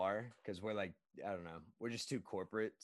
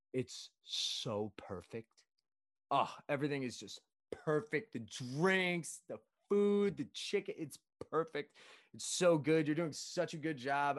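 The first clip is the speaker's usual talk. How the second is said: gushing customer; 3 semitones higher, slower than usual. Retold or imitated. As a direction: imitate over-the-top praise, key words stretched. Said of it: "And she goes".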